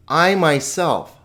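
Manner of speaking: "I" hit high and drawn out in "I myself"; slow, weighty emphasis landing on "I"; emphatic stress on I. Shown as a demonstration. Teacher shows students how autos emphasizes, emphatic "I". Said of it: "it's emphasizing".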